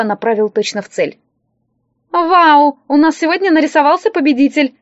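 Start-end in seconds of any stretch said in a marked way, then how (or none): 2.1-4.7 bright, higher, louder cry of delight; delighted exclaim. Acted. Stall girl cheers the winner, excited and delighted. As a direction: gush over the winner like a fairground barker. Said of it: "восхищённо заявила девица".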